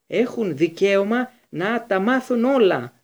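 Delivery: pushed out slowly while struggling; breathing heavily. A narrator's reading. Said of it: "ανασένοντας βαριά ο Λούπιν". (λαχανιαστά, αργά και δυνατά)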